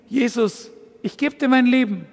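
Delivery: soft, hushed prayer of giving over; hushed surrender prayer. Shown as a demonstration. Preacher demonstrates a quiet prayer of surrender to Jesus. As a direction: hand your life over in a hushed voice. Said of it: "einfach zu sagen".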